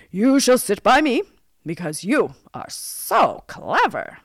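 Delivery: loud royal favour, slowing at the end; storybook king, emphatic and pleased; approving king. A narrator's reading. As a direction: bestow praise like a monarch. King honours the huntsman.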